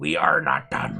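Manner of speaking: very low, deep, slow, rough, rasping wolf snarl. Narrating a fight, voicing the wounded Coalfang as she stands, growling as Coalfang. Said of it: "she growls".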